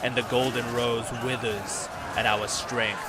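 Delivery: lightly acted battle oratory, gradually easing off; lightly voiced northern lord. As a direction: proclaim victory as a northern warlord, lightly.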